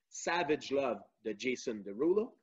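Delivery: English title in a convincing English accent; strong English accent. Real, not acted. Quiz host reading song choices to listeners, strong English accent. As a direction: say the names with good English pronunciation. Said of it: "qui a un fort accent anglais qui est très bon".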